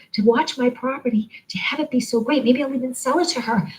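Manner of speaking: bright, certain manifesting talk; upbeat affirmation voice. Shown as a demonstration. Teacher showing viewers how to prepave, in an upbeat affirming voice. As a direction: lift the pitch and declare it as already yours. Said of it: "Like, talk like this".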